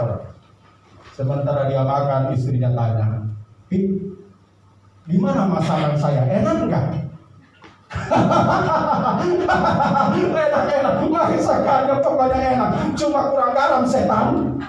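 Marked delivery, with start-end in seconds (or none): 3.7-7.1 wife asking. Acted. 7.9-14.6 high, laughing praise ending in an insult. Acted.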